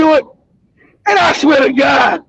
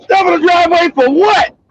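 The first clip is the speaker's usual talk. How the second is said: higher, rising on "what"; retold disbelief, throw the order back as a question; incredulous comeback; 5 semitones higher than usual. Acted argument with mom over shovelling.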